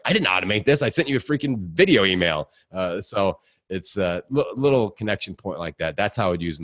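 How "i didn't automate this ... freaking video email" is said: mock-indignant retort. Mock protest to amazed recipients.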